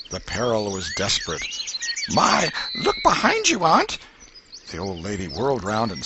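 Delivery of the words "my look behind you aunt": put-on boy's voice. A narrator's reading. Boy tricks aunt.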